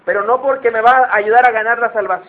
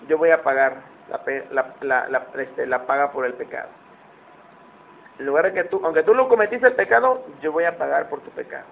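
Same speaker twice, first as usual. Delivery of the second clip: low voice of God; 5 semitones lower than usual. Acted. Preacher voicing God to the congregation, hushed and solemn. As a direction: speak God's promise gently and low.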